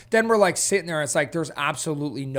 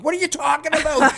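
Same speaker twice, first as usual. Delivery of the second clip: high, loud mock-indignant comeback; indignant retort; 12 semitones higher, 5 dB louder than usual. Driver answering passenger about a missed turn, mock indignant. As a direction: throw it back in loud disbelief. Driver snaps back at Sharon.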